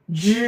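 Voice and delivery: জি held long from the throat; throaty জি. Shown as a demonstration. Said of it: "গলা থেকে উচ্চারণ করব".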